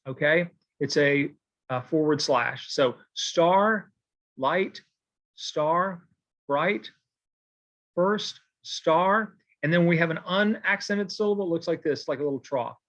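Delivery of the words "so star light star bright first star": each word set apart, slow, one stressed beat at a time. Shown as a demonstration. Teacher to students, marking stresses, word by word. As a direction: scan the rhyme word by word while marking it. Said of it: "your basic mark for a stressed syllable looks like this".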